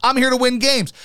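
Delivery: mock football player. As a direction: shrug it off like a locker-room player. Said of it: "They've probably all reconciled it with themselves and said".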